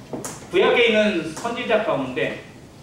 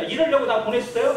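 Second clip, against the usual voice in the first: higher-pitched mock complaint; accusing question; 4 semitones higher than usual. Moses arguing with God about being sent, accusing. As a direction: challenge like someone feeling misused. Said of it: "막 그러면서 막 따지기도 해요".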